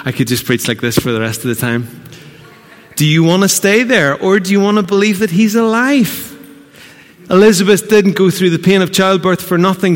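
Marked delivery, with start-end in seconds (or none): 3.0-10.0 higher and louder, press the question; fervent preaching call; rising challenge, louder. Acted. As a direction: rouse them to choose.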